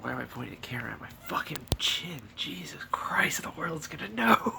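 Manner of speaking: whispered self-scolding; mutter-whisper to yourself, caught out; embarrassed whisper. Real, not acted. Whispering to himself about the camera angle. Notices camera aimed at his chin.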